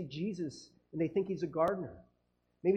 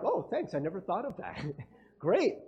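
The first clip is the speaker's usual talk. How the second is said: sarcastic thanks. Retold or imitated. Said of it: "Are you ever like".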